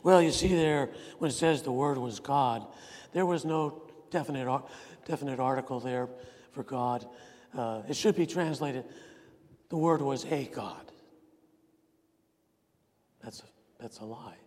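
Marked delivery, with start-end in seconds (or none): 0.0-10.9 mocking opponent's claim. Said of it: "you can't let people say".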